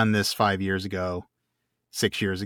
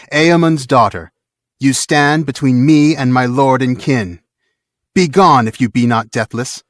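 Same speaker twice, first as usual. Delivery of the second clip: loud, higher, slow defiance of a warrior woman; defiant battle cry; 4 semitones higher, 9 dB louder than usual. Acted. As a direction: hurl each word at the foe. Eowyn defies the Witch-king.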